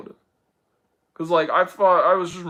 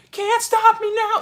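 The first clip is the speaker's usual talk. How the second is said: triumphant shout; 5 dB louder than usual. Retold or imitated. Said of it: "was like".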